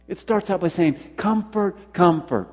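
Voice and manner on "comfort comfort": "Comfort, comfort" with both words stressed, the first pitched higher; emphatic repetition. Acted. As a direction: lean on each "Comfort, comfort" as a separate call. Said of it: "there was an emphasis on the word".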